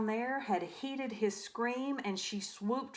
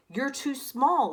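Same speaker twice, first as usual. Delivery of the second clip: mild laughing; 5 semitones higher, 5 dB louder than usual. Acted. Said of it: "laughed the wolves".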